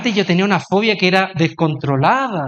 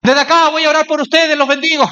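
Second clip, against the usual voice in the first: nervous refusal; 7 semitones higher than usual. Retold or imitated. Pastor refusing to join the ride.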